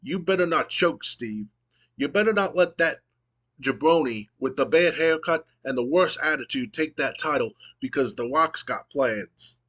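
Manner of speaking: a touch of swaggering promo voice; The Rock promo. Retold or imitated. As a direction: lightly imitate a boastful wrestler calling out his rival. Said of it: "The Rock says".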